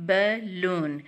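"Balloon" in two separate sounds; split into syllables. Shown as a demonstration. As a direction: break "Balloon" into bal, loon. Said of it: "example of the two syllable word". ("Balloon" दो टुकड़ों में अलग-अलग)

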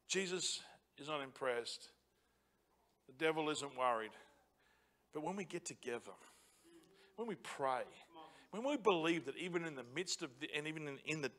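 a quiet, grave sermon aside; hushed preaching. Acted. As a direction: drop low and soft for weight. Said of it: "preacher drops to a hush".

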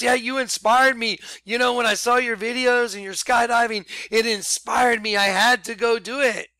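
lightly voiced excited friend; retold excitement. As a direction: relay the friend's gushing thanks. Pedro gushing about being inspired.

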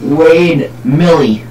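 put-on Alabama accent. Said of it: "how Alabama that sounded".

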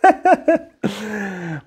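happy bright laugh. Real, not acted. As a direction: laugh with delight at him. Father laughs. (fröhliches Lachen)

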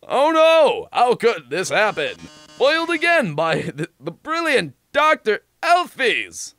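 hammy defeated villain. Acted. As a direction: overplay the foiled villain. Robot host foiled.

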